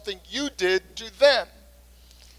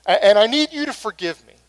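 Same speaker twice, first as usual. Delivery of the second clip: sincere apology. Shown as a demonstration. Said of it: "It's to say things like".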